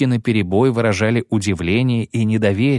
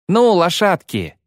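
1 cry out; 8 semitones higher than usual. Acted. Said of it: "крикнула Искра".

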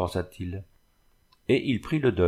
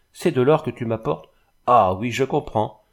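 raised, indignant husband's voice; colère indignée; 3 semitones higher, 4 dB louder than usual. Acted. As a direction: throw it at her, mildly angry. Mari furieux contre sa femme. (indignation du mari, voix montée)

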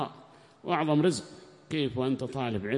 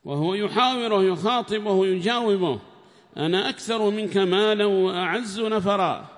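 loud, higher reading of the commentary, at times slow; formal text reading; 7 semitones higher, 8 dB louder, slower than usual. Acted. Reader reads the tafsir aloud in class, loud and formal. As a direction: read the book out to the class in a raised voice.

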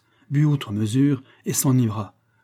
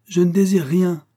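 loud, raised thundering reply; 8 semitones higher, 6 dB louder than usual. A narrator's reading. Raphaël snapping back at the banker's offer, thundering. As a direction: thunder it out, high and forceful. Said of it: "d'une voix tonnante".

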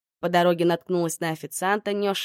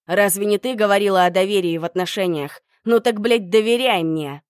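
angry shout; 7 dB louder than usual. Acted. Emil shouts back in the quarrel.

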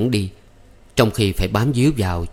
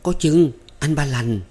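mumbled; 6 semitones higher than usual. Acted. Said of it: "Thắm lúng búng".

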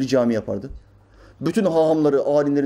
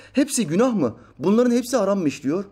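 higher-pitched incredulous challenge; imitated indignation, pitched up; indignant question; 6 semitones higher than usual. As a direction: press the rhetorical question. Voicing Metiner's indignant question.

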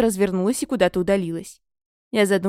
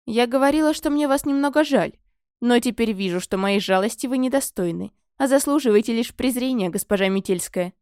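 disdainful; 2 semitones higher than usual. Acted. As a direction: talk down with disdain. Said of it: "пренебрежительно хмыкнула".

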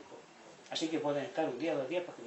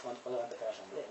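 laughing impatience; 4 semitones lower, 9 dB quieter, faster than usual. Retold or imitated. Impatient outsider at assembly.

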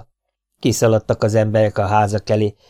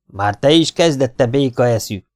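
scolding woman; 4 semitones higher, 4 dB louder than usual. Acted. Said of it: "torkolta le ... az asszony".

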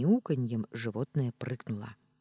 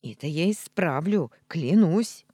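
1 angry vow; 3 semitones higher, 7 dB louder than usual. Acted. Cat vows revenge.

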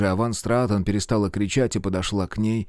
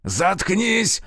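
high screaming shut up; yell; 9 semitones higher than usual. A narrator's reading. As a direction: scream her down. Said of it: "завопил Альбрехт".

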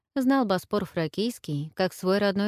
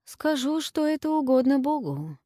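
quick reply; 8 semitones higher than usual. Acted. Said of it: "быстро отозвался Сергий".

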